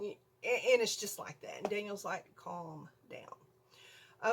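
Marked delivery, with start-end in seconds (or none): 2.4-4.3 low, soft and steady retold reply; calming husband. Daniel answering her panicked mouse call, calmly. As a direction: softly settle someone panicking.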